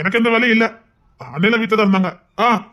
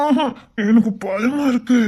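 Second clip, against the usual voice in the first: mock fearful whimper; slower than usual. Groom fakes fear on wedding night.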